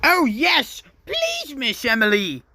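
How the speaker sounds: high, eager plea from the engines; eager chorus. Acted. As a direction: beg sweetly, all together. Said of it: "The other engines agreed".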